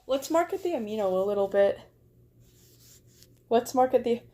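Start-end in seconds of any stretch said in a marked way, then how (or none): 0.1-1.8 a hint of a British accent, quick; light British accent. Pitching her Amino community, a touch of British accent. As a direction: toss it off in a half-British voice. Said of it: "why did Vi sound British?".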